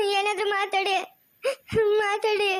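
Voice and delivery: tearful begging; crying plea. Acted. Wife begs husband to say anything, crying. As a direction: plead through tears.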